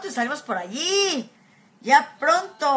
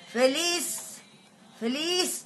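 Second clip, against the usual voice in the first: choked up; 3 semitones higher, much slower than usual. Real, not acted. Voice breaking at the news.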